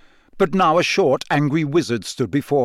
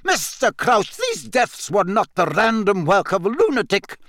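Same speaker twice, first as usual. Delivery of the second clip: high, heated insistence; impassioned, angry argument; angry cry; 8 semitones higher than usual. A narrator's reading. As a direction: protest urgently in a raised pitch. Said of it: "Professor McGonagall cried".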